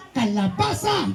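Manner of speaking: Kalabasa said smoothly as one word. Shown as a demonstration. Interviewer models whole word for boy, smooth Kalabasa. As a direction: run Kalabasa together, no breaks. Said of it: "diretsunin mo".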